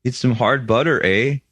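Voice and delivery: light Canadian accent with a tag "eh"; lightly put-on Canadian accent. Shown as a demonstration. Co-host showing how he should have said it, Canadian accent. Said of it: "here's his Canadian accent".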